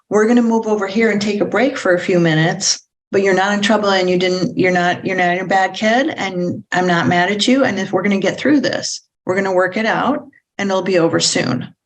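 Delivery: gentle, kind, steady reassurance; reassuring tone. Shown as a demonstration. Parent calming a child during a meltdown, reassuring. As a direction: tell the kid they're not bad, kindly. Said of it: "hear from the tone".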